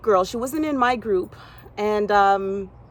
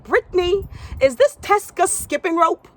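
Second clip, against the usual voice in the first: high, louder, sugary questioning; fake nice; 9 semitones higher, 5 dB louder than usual. Gym owner questioning the young girl, fake nice voice. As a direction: put on a falsely sweet adult tone. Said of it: "trying to say it in a, a nice way".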